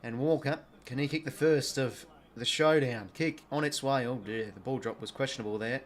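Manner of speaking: sportscaster energy calling the match; live footy commentary. Acted. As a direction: call the game like a TV commentator.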